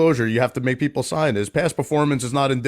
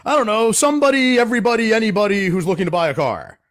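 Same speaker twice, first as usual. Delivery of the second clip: high airy clueless client voice; mock clueless client; 9 semitones higher than usual. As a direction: toss it off like a client who hasn't thought. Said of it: "they'll be like".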